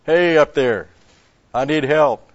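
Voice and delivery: loud, high calls up the cliff; desperate monk yelling upward; yelling for help. Acted. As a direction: shout up for someone to hear you. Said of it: "So he yelled".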